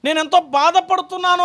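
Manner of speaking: grieving God's voice. Retold or imitated. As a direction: plead as a grieving father over lost children. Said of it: "అన్నాడు".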